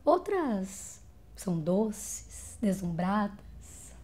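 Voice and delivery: slow, soft and lingering; tender, unhurried softness; sweet, dreamy. Acted. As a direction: draw it out softly, as if dazzled. Voice paints the sweet women.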